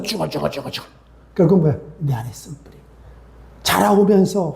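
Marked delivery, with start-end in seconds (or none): 0.0-0.9 repetitive mock grumbling, trailing softer; imitated solitary muttering. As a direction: mutter the same syllables over and over to yourself. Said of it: "그렇지 아니하고 혼자서".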